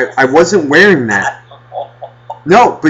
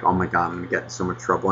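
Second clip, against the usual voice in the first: put-on scared kid; 6 semitones lower, 10 dB quieter, faster than usual. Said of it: "I remember being scared".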